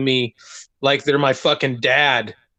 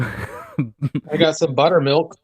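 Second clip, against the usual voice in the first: slow drawl; much slower than usual. Acted. Slow drawn-out joke delivery.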